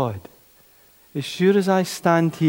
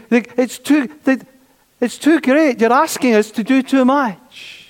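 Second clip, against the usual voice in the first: overwhelmed complaint; 3 dB louder than usual. Retold or imitated. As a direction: voice the church moaning it's all too much. Congregation voiced complaining, overwhelmed.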